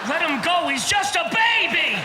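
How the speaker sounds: high-pitched mother-like plea; pleading whale. Retold or imitated. Another whale pleads for the baby.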